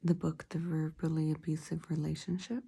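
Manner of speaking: slight lisp from a mouthguard; wearing a mouthguard. Real, not acted. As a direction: talk around a mouthguard. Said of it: "I got my mouth guard on, so I might have a little lisp".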